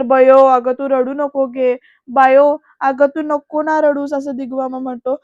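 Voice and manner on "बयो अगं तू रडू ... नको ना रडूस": imitated uncle's slow, louder plea; drawn-out, mildly hammed-up consoling; acted pleading. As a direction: stretch the name, begging her to stop. Uncle begs crying girl to stop.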